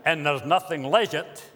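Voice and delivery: a light Scottish accent, imitating an old Scottish gentleman; lightly put-on Scottish brogue, fond and wry; a hint of a Scottish burr, chuckling at the end. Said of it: "in his Scottish accent".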